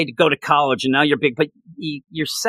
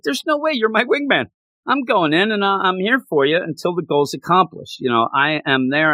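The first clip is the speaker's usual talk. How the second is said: higher-pitched, hammed-up outrage; mock indignant Scourge; 5 semitones higher than usual. Scourge refusing to abandon Bill, high mock outrage. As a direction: play him insulted and refusing to leave, voice up high. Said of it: "Scourge gets so angry".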